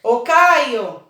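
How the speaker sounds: natural name call, leaning on the strong syllable. Shown as a demonstration. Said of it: "como se eu fosse chamar o Caio".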